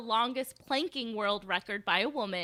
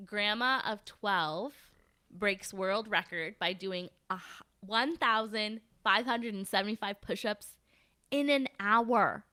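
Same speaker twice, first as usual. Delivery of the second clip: measured headline reading; 3 semitones lower than usual. Shown as a demonstration. Host reads a record-breaking grandma headline to co-host, measured headline read. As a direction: read out the headline slowly, phrase by phrase. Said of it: "here's the headline".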